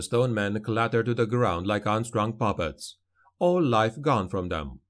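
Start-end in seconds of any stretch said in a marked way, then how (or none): none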